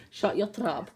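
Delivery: Scottish accent. Shown as a demonstration. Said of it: "do a great Scottish accent".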